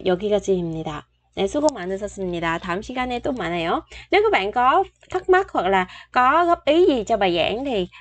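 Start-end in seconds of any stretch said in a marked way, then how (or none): 0.0-3.8 fast sign-off. Shown as a demonstration. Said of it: "Korean sign-off, rushed".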